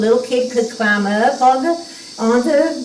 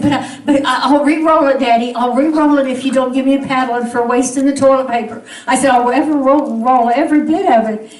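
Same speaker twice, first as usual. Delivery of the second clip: put-on higher, louder pleading child voice; begging child; 4 semitones higher, 3 dB louder than usual. To daddy, as a little girl begging hard. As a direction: beg like a little girl afraid of a paddling.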